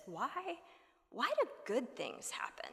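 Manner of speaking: whispered question, almost secret; hushed whisper. Acted. Posing the big question.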